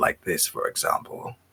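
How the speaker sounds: much rougher voice. Showing the voice they can put on while explaining: much rougher voice. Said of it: "I can have a much rougher voice on it".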